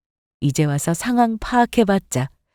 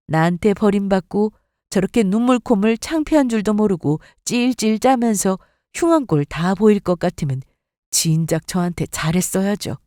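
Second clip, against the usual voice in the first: usual speaking voice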